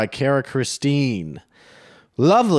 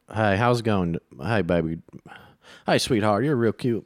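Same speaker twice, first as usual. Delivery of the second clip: Georgia accent. Shown as a demonstration. Co-host demonstrating Georgia flirting, light Georgia accent. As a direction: try out a Southern Georgia accent. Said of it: "I don't know what Georgia's like".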